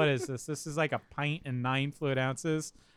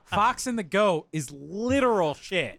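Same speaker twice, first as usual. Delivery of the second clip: laughing protest; 4 semitones higher, 5 dB louder, slower than usual. Real, not acted.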